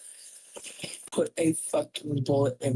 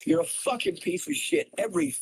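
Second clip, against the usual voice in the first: raw hoarse scream; 13 semitones higher, faster than usual. Real, not acted. Raging at chat.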